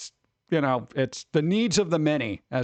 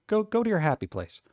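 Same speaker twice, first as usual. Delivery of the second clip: shrugging doctor; 5 semitones higher than usual. Retold or imitated. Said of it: "getting that weird shrug".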